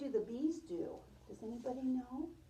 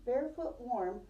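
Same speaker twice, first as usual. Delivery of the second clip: storybook read-aloud for a class; gentle read-aloud voice; reading to children; slower than usual. Acted. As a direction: tell it like a picture book to little kids. Teacher reads picture book aloud.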